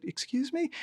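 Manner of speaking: rising, disbelieving excuse me; retold surprise. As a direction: act taken aback by the threat. Startled reply to threatening woman.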